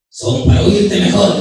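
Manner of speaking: slow, drawn-out answer; reply slowly in character; lightly voiced wolf. Wolf answering Caperucita about his ears, slow.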